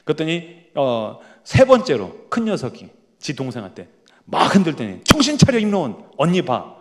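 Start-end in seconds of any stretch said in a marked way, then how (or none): 5.0-6.8 grab her attention, firm and bossy; older sister scolding her little sister; stern big sister. Retold or imitated. Older sister shaking her again.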